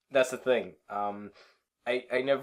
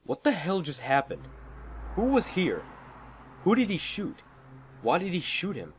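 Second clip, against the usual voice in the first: frantic confusion; 8 semitones higher than usual. Acted. Driver alone after the shooting, frantic. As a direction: fire off bewildered questions.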